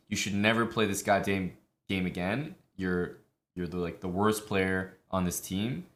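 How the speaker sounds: imitating a toxic player's rant; mock angry flame at a teammate; raging gamer. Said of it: "I'm gonna use nicer words right now".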